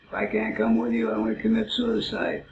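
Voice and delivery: a hammed-up pleading dog, high and loud; melodramatic dog voice. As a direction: play the dog's threat as a hammed-up sob story. Dog threatening dramatically.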